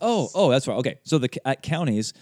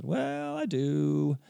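wry admission; 5 semitones higher, 4 dB quieter, much slower than usual. Retold or imitated. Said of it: "And I said".

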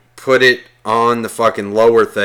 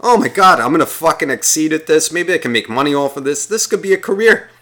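higher-pitched boyish self-congratulation, retold; mock excited thought; 4 semitones higher than usual. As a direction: get carried away imagining an awesome future. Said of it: "all I kept thinking was".

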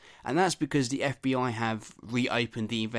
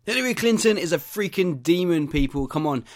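higher, louder mock ranting preacher; mock Alex Jones rant; 6 semitones higher, 6 dB louder than usual. Host parodying Alex Jones for listeners, mock higher louder rant. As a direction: ham up the conspiracy ranter.

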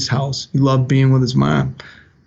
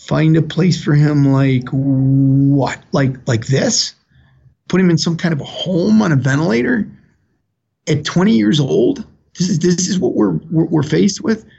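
incredulous; 3 semitones higher than usual. Retold or imitated. Father questions doctors about a home for his ventilated son, incredulous.

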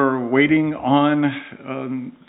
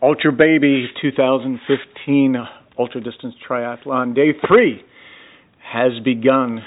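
announcer read. Acted. Announcing the race start for the audio recording, in a mild announcer style.

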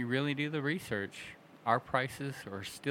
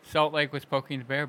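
skeptical echo; 4 semitones higher, 6 dB louder than usual. Real, not acted. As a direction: repeat it back louder and higher, questioning it. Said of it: "but look how many places that are still doing it".

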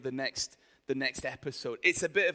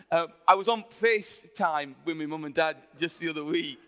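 slipping into broad Yorkshire; accidental Yorkshire twang; Yorkshire accent; 5 dB louder than usual. Real, not acted. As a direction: let the Yorkshire vowels come out. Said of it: "went really Yorkshire there".

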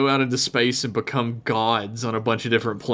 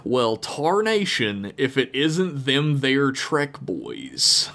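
a hint of a grizzled old-timer; old prospector. Reads cowboy pilot's email.

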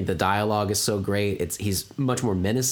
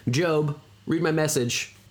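slow, stiff computer voice; robot voice; 6 semitones higher, slower than usual. Retold or imitated. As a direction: read it like a phone assistant. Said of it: "a computer voice say it".

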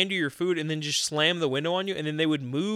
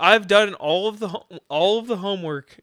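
mock exasperated rant; 3 semitones higher, 6 dB louder than usual. Friend playing the customer scolding the cashier, hammed-up loud rant. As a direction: vent at the cashier like you did everything right.

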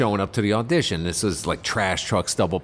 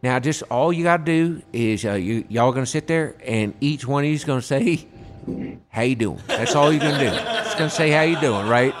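lightly voiced Southern accent, polite and easygoing; mock Southern director giving instructions. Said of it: "he's a little Southern guy".

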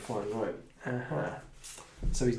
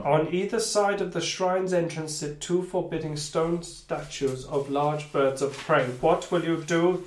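measured storytelling read; game master narration; 3 semitones higher than usual. Acted. Game master describing the temple to players, measured narration. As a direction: read the new scene out steadily.

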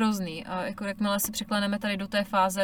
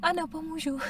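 sweet mock mom; 8 semitones higher, 4 dB quieter than usual. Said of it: "A já jenom".

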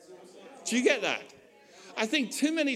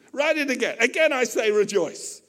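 higher, louder insistence; mock command; 4 semitones higher, 4 dB louder than usual. Paul telling the scribe to write it again, mock insistent. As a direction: repeat the order with mock force. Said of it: "then he goes".

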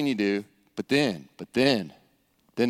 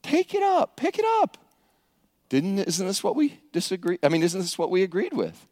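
calm the angry worker down; soothing landowner; 2 semitones higher than usual. Acted. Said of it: "like the landowner saying".

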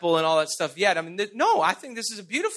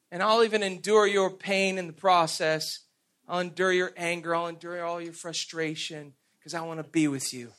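tender voice of God; 2 semitones lower than usual. Retold or imitated. Preacher voices God promising to stay with his people, tender.

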